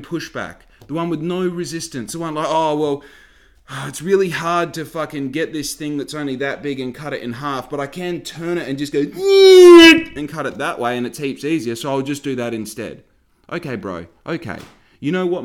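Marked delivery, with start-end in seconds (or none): 2.5-13.0 mock whiny butcher. Mocking the butcher's lazy excuse.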